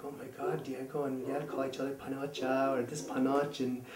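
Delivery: realizing with quiet horror; inner panic. Retold or imitated. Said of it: "thinking in his head".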